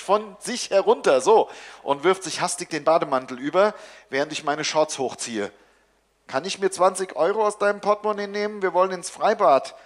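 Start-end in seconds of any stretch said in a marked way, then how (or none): 6.3-9.7 put-on higher, quick kid's request; eager child. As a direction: rush the question like a teen begging. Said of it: "Schnuffelinchens Stimme".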